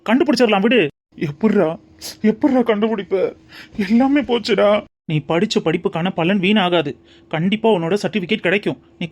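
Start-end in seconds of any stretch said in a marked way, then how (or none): 1.3-4.7 acted, understated tearful despair; tearful lamenting. Man doubts his friend can find the file, tearfully lamenting. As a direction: moan hopelessly, close to tears. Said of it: "பைத்தியம் மாதிரி புலம்பி அழுதுட்டு இருக்க".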